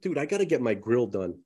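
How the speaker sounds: lisping on the s sounds. Real, not acted. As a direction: talk with a real lisp. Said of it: "I'm lisping worse than ever".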